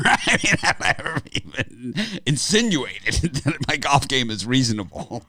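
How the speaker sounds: loud, high-pitched incredulous protest with laughter; high, loud, amused indignation. Real, not acted. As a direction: protest in disbelief, laughing through it. Exasperated joking denial of golf claim.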